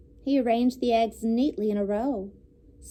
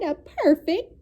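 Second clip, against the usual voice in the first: higher, slow goose delight; 6 semitones higher, 4 dB louder, slower than usual. A narrator's reading. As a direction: hold it like a pleased goose. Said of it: "she cried".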